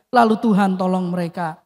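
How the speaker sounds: normal talking voice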